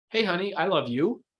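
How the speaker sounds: questioning rise in pitch at the end on you. Showing how the wrong tone changes a greeting: questioning rise on you. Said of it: "it was like I was questioning if I love her".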